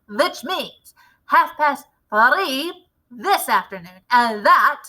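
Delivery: a lightly voiced commanding witch leader; a hint of a grand witch showing off her recipe. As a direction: lecture the coven like their boss. Grand High Witch addresses the witches.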